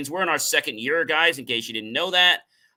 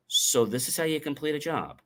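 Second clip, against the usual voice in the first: "how" stressed, "job" dropping at the end; falling tune; 3 semitones higher, 3 dB quieter than usual. Shown as a demonstration. Coach showing the different reading, falling on "job". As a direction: lean on "how" and let "job" fall. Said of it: "See the difference?".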